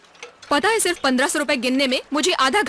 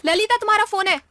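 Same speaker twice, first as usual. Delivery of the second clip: calling out; 7 semitones higher than usual. Acted. Calls colleague over to the phone.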